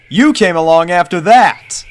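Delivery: put-on high, loud boy pony; young colt voice. A narrator's reading. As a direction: point it out like a kid. Snail voiced.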